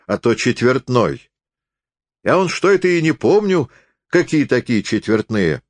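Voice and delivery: high, swooping country voice; wheedling peasant forester. Acted. Forester haggles, feigning innocence. (хитроватый деревенский лесник, высоким голосом)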